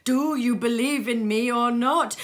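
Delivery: loud, fast, high ghostly challenge; ghost's demand. Acted. Ghost demanding Scrooge believe, loud and fast. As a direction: press him hard for an answer.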